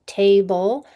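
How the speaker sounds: "table" split as TAY-bul with long A; open syllable. Shown as a demonstration. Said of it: "open syllable".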